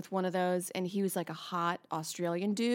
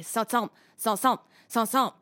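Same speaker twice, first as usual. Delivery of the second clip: chomping noises; 3 dB louder than usual. Acted. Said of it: "Amber's interpretation of feet".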